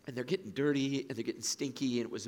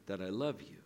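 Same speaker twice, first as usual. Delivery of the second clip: measured reading with long solemn pauses; scripture reading. A narrator's reading. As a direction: read the Gospel aloud, letting each quote breathe. Reads scripture aloud.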